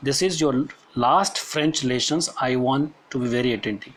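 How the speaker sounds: slow, deliberate classroom reading; measured textbook reading with pauses; read-aloud text. Acted. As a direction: read it out phrase by phrase for students. Reads the story text aloud.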